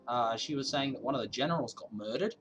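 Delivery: a hint of a mock Australian accent. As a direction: keep a light Aussie twang going. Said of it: "now Harry's Australian".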